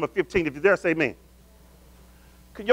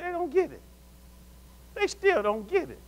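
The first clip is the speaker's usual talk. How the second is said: exasperated lament; 7 semitones higher, 6 dB quieter than usual. Acted. Acting out lament over others.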